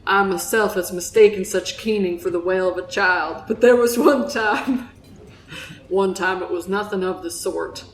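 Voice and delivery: lightly voiced Southern fisherman; storytelling with a Southern accent. Fisherman recalls an eerie wail at sea, in a Southern accent. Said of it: "that's my Southern accent".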